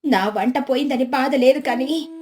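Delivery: lightly tearful mock complaint; put-on plaintive whine; plaintive wife feigning grief. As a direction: lament as the wronged housewife. Voices Lakshmi feigning grief.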